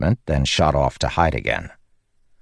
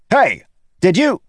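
high, insistent call; cocky bid for attention; 5 dB louder than usual. Acted. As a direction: hail a friend, pitched up. Lopen calls after ignoring friend.

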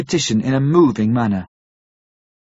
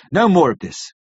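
stern. Acted. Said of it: "I said sternly".

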